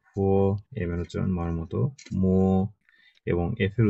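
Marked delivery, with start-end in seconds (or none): 0.1-0.1 ফ said like Bengali ফ; aspirated ph sound. Shown as a demonstration. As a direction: say ফ as ph, with a light puff of air. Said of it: "বিরুচ্চারণ ফয়ের মতো".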